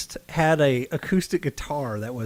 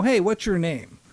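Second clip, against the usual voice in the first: chipper question; 6 semitones higher than usual. Retold or imitated. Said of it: "And I'd say".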